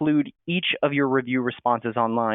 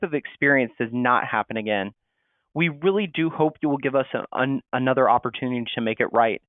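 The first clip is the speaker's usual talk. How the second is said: sympathetic. Shown as a demonstration. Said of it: "in a more sympathetic hotel voice".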